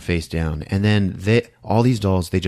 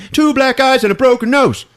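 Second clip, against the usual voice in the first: much higher, louder, through laughter; laughing repeat; 9 dB louder than usual. Shown as a demonstration. Retelling the horror movie, laughing it out. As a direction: crack up at the gore. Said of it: "She has two black eyes".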